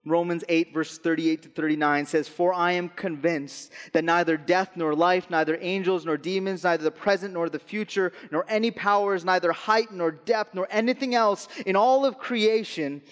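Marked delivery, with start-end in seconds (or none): 2.3-13.0 building proclamation. Acted. Pastor reading Romans, building to a climax. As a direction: build each neither toward a climax.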